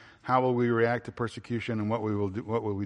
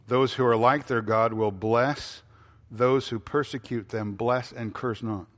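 each word laid down slowly and deliberately; slow, weighty quote; slower than usual. Shown as a demonstration. Preacher quoting Paul to his congregation, slow and weighty. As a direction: let the command sink in, word by word. Preacher drives home the point.

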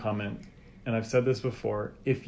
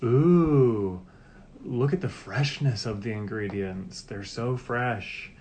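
lightly imitated ad pitch, opening on a drawn-out "Ooh"; mock admiring sales pitch, slowing at the end; touting advertiser; slower than usual. Parent describing pizza ads, lightly imitated touting. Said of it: "The others were touting".

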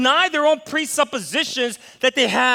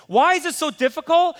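usual speaking voice

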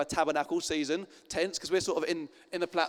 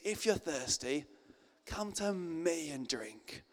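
tender invitation; slower than usual. Retold or imitated. Jesus voiced, soft invitation.

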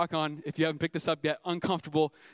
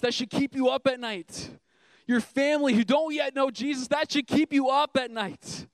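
building sermon refrain; 5 semitones higher than usual. Acted. Pastor urging church about unsaved families, building fervour.

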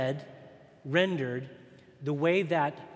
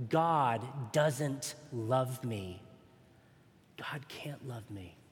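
slow, fading into a breathy whisper; a slow dark whisper trailing off to nothing; whispering the lie; 2 semitones lower, 4 dB quieter, slower than usual. Acted. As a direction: let the lie sink to a whisper. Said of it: "whispering to every one of God's children".

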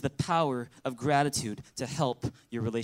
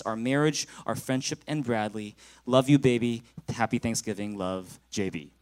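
reading a love letter; 3 semitones lower than usual. Acted. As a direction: read it gently to his wife. Reads his love letter aloud.

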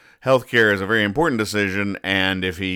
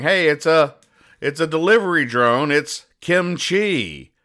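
excited discovery; 7 semitones higher, 3 dB louder than usual. Retold or imitated. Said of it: "it just says".

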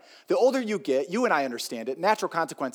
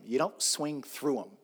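slow explanation; 5 dB quieter, slower than usual. Shown as a demonstration.

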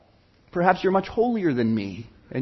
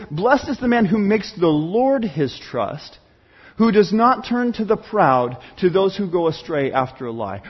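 scripture reading. Acted. Pastor reading scripture aloud.

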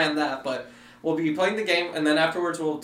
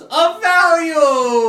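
high, slow drawn-out announcer; BioShock quote voice; 11 semitones higher, 7 dB louder, much slower than usual. Retold or imitated. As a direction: stretch it like a game announcer. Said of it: "my first thought was".

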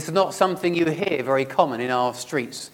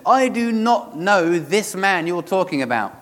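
mildly forceful, raised-pitch oath; sworn denial; 5 semitones higher, 4 dB louder than usual. Acted. Peter swears to bystanders he does not know Jesus, sworn denial. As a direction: swear it word by word, firmly. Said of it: "he swore to them".

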